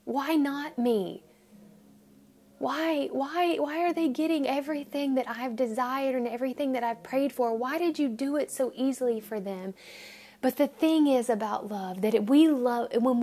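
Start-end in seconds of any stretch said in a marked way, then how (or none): 0.0-9.7 a touch of whining complaint; plaintive complaint to God. Retold or imitated. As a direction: lament like a hurt child asking why. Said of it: "We say".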